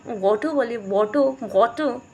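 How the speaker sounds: वाटर as "vo-to", ending in a round O; wrong accent. Shown as a demonstration. Showing students wrong variants, wrong accent. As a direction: say वाटर as "vo-to", without the final R. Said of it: "this is also wrong accent".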